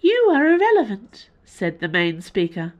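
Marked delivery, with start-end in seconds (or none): 0.0-1.3 very high, loud alien decree. Acted. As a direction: pronounce final judgment from above. Alien main speaker dismisses.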